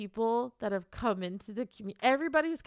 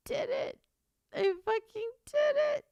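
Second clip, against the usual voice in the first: high, tight voice, overcome with joy; tearful disbelief; 13 semitones higher than usual. Real, not acted. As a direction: squeak it out on the edge of happy tears. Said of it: "Why can't I stop crying?".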